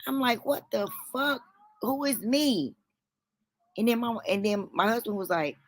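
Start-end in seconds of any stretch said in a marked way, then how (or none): 0.5-2.8 high-pitched, exasperated disbelief; retold confusion, softer and higher; baffled. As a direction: question it in utter puzzlement.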